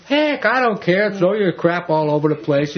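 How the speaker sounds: mock indifference. Acts out a parent who doesn't care.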